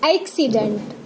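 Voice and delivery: एक्सीडेंट starting on an open ae; ae sound demonstration. Shown as a demonstration. Teacher models the two-matra sound, open ae starting एक्सीडेंट. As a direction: open the first vowel of एक्सीडेंट to ae. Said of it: "इसमें दो मात्राएं आ रही हैं".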